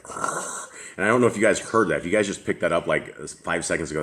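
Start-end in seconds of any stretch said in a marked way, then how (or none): 0.0-0.7 soft unvoiced mock Vader rasp, much quieter; Darth Vader breathing. Telling the group how Eli breathed, soft mock Vader rasp. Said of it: "It sounded like Darth Vader was like".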